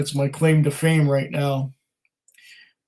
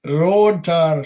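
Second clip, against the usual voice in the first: quick hammed-up Scottish accent; terrible Scottish accent; 2 semitones higher than usual. Host repeating a viewer's tasting note, mock Scottish accent. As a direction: toss off road tar in a bad Scottish accent. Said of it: "please excuse my really terrible Scottish accent".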